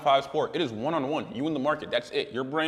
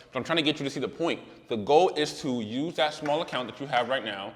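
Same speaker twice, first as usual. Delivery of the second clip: talking through sore braces; stiff, careful mouth, aching teeth; sore jaw from braces. Real, not acted. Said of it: "sorry I'm talking like this 'cause I just got my braces tightened".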